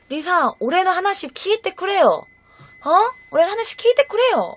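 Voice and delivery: high-pitched appeal in Japanese; acted pleading. Man appealing to Lisa in Japanese, acted pleading. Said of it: "이렇게 호소하고 있었대".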